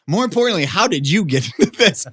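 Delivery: high, loud incredulous question; mock astonishment. Friends asking how he got in, high incredulous. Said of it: "They're like".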